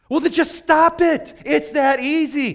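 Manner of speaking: high and loud, brushing it off; Jesus voiced as a blunt therapist; mock blunt command. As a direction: bark it like it's that simple.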